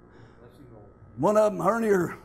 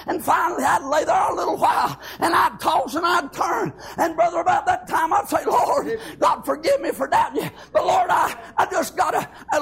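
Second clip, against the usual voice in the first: higher and climbing, pleading prayer cry; preaching at full force; 4 semitones higher than usual. Acted. Preacher to the congregation, reliving his sleepless prayers, in full-force preaching. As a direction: pour it out to the Lord, voice rising.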